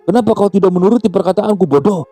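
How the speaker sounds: high-pitched berating; heated, high-voiced telling-off; angry scolding. A narrator's reading. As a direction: scold him for a dangerous blunder. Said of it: "bentak Nini Tia".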